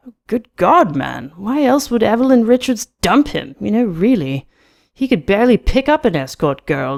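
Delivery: loud, high, exclaiming gossip; animated mockery with swooping pitch; scornfully amused Carnes. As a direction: scoff as if the idea is absurd. Voices Carnes in story.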